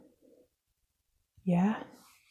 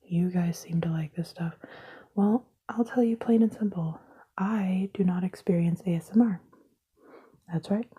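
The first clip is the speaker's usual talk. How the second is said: whisper. Acted. Explaining to viewers why she whispers, in a whisper. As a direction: hush every word close to the mic. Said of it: "why I'm talking like that".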